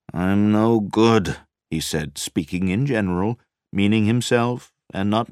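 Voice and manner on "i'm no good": thin, brittle, slow and louder; squeaky brittle voice. A narrator's reading. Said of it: "his voice squeaked back at him".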